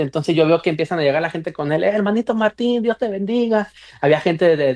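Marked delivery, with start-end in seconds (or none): 1.8-3.7 higher-pitched imitation of churchgoers' greeting. Crowd arriving to greet a fellow believer at the retreat, greeting. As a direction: lightly act out a crowd's hail to a brother. Acts out people greeting Martín.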